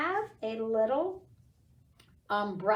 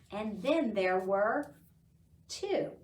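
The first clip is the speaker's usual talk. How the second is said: poem recitation. Acted. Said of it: "So the poem goes".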